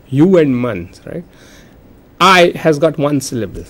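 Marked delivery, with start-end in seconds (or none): 0.1-1.0 "hu" and "mans" said as separate parts; split into syllables. Shown as a demonstration. Teacher showing that human has two syllables, split in parts. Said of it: "Human has got two syllables".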